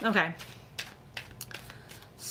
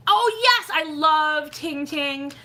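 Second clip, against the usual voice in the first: high, loud burst of delight; real fan enthusiasm, pitched high; gushing excitement; 7 semitones higher, 6 dB louder, much slower than usual. Real, not acted. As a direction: gush loudly, drawing out the words. Delighted at a favourite ASMR artist.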